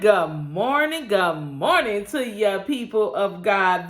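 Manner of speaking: slow, drawn-out church welcome; preacher greeting. Acted. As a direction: greet the congregation like a pastor.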